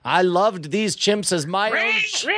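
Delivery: slow, solemn lament; mock grieving speech. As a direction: mourn like a tragic hero. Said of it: "I turn to the audience and I say".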